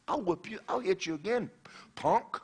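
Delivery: high, sputtering mock fury; stammer, then threaten him; worked-up schoolboy threat, played for laughs; retold anger. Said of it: "But I was so mad".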